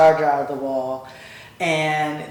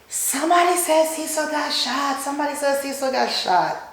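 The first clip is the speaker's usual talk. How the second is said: higher, panicked cry of news; retold frantic scream; 9 semitones higher, 3 dB quieter than usual. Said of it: "she's screaming at the top of her lungs".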